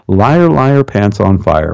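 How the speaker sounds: lightly sing-song taunt; playground taunt. Shown as a demonstration. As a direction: throw it back at a liar. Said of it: "Just say it like that".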